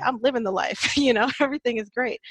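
imitating a too-happy past self; retold cheery insistence. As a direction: play up being happy, then laugh it off. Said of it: "I'd be like".

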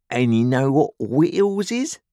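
high, pressing question; threatening convict. A narrator's reading. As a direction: quiz the boy with menace. Convict quizzes the boy.

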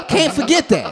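high, laughing aside; a first quick laughing take; laughing disbelief. Retold or imitated. Reacting to SpongeBob on TV.

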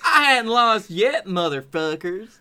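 lightly mocked defiant Southern politician; Roy Moore. Defeated candidate defying voters, mock defiance. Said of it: "I'm Roy Moore".

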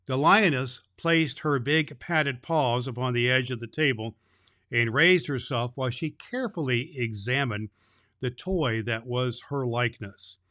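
put-on gentle read-aloud for children; story narration. A narrator's reading. Santa reading a chapter to the children.

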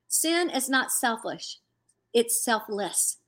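slow, measured retelling of God's words; gentle, deliberate. Retold or imitated. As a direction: let each word land slowly and gently. Retells God gently speaking to her.

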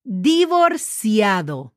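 Divorciado said slowly, each syllable drawn out; slow demo pronunciation. Shown as a demonstration. Teacher modeling Divorciado slowly for students. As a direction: spell it out slowly. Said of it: "I'm gonna spell that for you".

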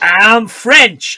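put-on French accent. Frenchman answering the Americans in a mock French accent. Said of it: "I think my French accent's slightly better".

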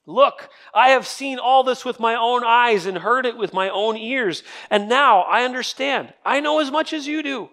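rising, slowing, indignant comeback; frustrated retort. Retold or imitated. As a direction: read it like a man fed up with his friends. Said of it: "Job's getting a little frustrated".

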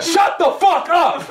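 slow laughing protest. Real, not acted. Laughing at his friend's claim, slow laughing shut up. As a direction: laugh it out while telling him off.

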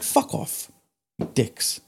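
mock whispered insult to clients; muttered dismissal. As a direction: breathe it under your breath.

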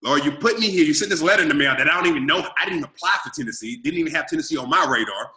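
complaining to God about the broken promise, frustrated; frustrated complaint to God. Retold or imitated. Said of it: "'Cause I'm getting mad, I'm angry, I'm frustrated".

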